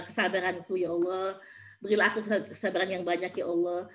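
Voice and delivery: subdued, pleading prayer; modelled prayer. Shown as a demonstration. Mother asking God for patience, subdued prayer. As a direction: pray earnestly in a low-key voice.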